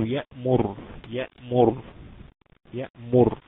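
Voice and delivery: يأمر ending on a heavy still R after "mu". Shown as a demonstration. Teacher repeating the damma example, heavy ra. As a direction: stop on the thick ر of يأمر. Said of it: "راء ساكنة وقبلها مضموم".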